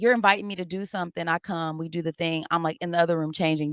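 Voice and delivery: ordinary talk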